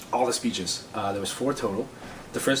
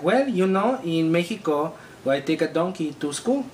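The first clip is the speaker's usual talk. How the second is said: fake Mexican accent; 5 semitones higher than usual. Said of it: "my accent is in fact fake".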